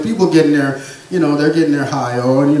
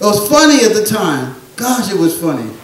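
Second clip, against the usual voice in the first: amused; 5 semitones higher than usual. Real, not acted. Laughing recollection.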